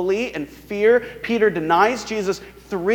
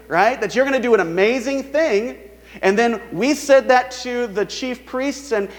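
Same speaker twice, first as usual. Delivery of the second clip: higher, sarcastic taunting voice; mocking crowd; 4 semitones higher than usual. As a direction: rub his failure in his face. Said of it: "they're making fun of him".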